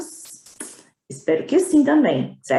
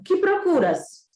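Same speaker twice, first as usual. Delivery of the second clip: higher, slow fox question; 7 semitones higher, slower than usual. Acted. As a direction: ask the boy slowly as the fox. Fox voiced in story. (raposa perguntando, aguda e lenta)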